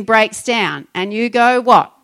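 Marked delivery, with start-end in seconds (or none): 1.6-1.9 exasperated what. Retold or imitated. A bill arrives, something breaks.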